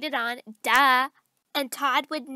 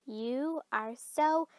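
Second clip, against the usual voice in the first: slow, low build to a scream; exploding in anger; 3 semitones lower, 8 dB louder, much slower than usual. Acted. To the friend who started it all, exploding. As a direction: hold back, then shriek the last word.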